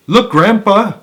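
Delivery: put-on high, loud boy's cry; excited cry. A narrator's reading. Charlie spotting a door, excited cry. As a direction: point it out eagerly. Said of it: "cried Charlie".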